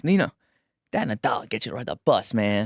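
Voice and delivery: light imitation of a small boy; imitating his son. Father imitates his son's words to his brother, lightly voiced. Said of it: "He goes".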